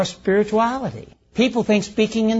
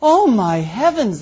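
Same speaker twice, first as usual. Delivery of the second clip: drawn-out, swooping exclamation; exclaiming lady; 2 semitones higher, 4 dB louder, slower than usual. Retold or imitated. A lady admiring how something looks, mock exclaiming. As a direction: imitate a lady's slow gush of admiration. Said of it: "then a lady goes".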